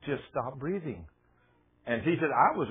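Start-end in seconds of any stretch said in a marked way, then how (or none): 0.0-1.1 imitated soothing voice. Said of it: "I heard this voice".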